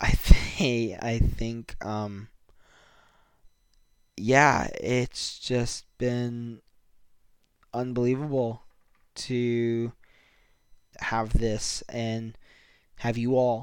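emotional, halting, stop-start voice breaking up. Podcast host thanking listeners for being part of the community, getting a little emotional. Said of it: "I'm kind of getting a little emotional".

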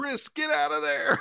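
mock very high, shrill, raspy, rough scream. Speaker recalls yelling at a character in a movie, retelling a scream. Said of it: "I literally screamed".

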